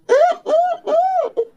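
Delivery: short high muffled hums; high "mm" sounds with mouth closed; muffled protest hum. Acted. Stepdaughter caught off guard by stepdad, muffled protesting hums.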